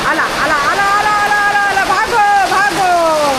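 high rapid-fire repeated warning, last word held; high excited calling; playful alarm. Pretend. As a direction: cry out to scatter everyone. Mock alarm, telling dogs to run.

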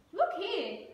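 yawning koala. Acted. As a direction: say it through a yawn. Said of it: "he yawned".

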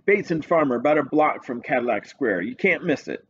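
a lazy, unbothered police sergeant; desk sergeant voice. Acted.

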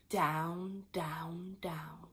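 fading refrain. A narrator's reading. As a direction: let the words fall away.

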